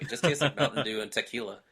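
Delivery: mildly condescending retelling of the sister; a light touch of talking down about the drink; understated sniffy dismissal. Retold or imitated. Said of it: "said those exact words in a condescending way".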